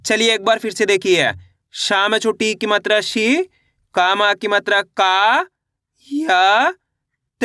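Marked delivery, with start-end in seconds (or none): 1.7-7.4 शी, का, या stretched with rising ends, then त alone; syllable by syllable. Shown as a demonstration. Teacher showing learners again how to read, syllable by syllable. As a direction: say शी, का, या, त one slow syllable at a time. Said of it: "एक एक अक्षर का उच्चारण करके".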